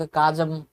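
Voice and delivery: काजम said with a hard k sound; काजम with a plain k; mispronounced काजम, hard k; wrong kaajam. Shown as a demonstration. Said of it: "ना तो काजम है".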